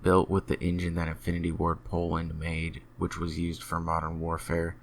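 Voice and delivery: even, measured gaming news report; scripted news delivery with little pitch movement; news read. Real, not acted.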